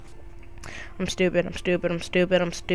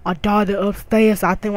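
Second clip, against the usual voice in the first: a hint of a deeper neighbor voice. Neighbor mom introducing her daughter, in a slightly deeper voice. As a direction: lower your voice a little for the neighbor. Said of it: "make a deep voice".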